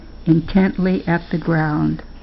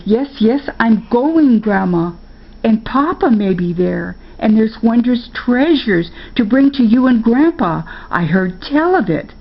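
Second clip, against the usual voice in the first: put-on eager boy; 4 semitones higher than usual. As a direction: talk her round with excitement. Spark eager, insisting.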